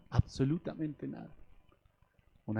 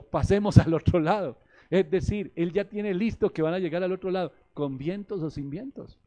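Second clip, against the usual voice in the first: loud, raised-pitch declaration driving the promise home; emphatic proclamation; 5 semitones higher, 7 dB louder than usual. Acted. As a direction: preach it loud and high. Preacher hammers home Jesus' quoted promise.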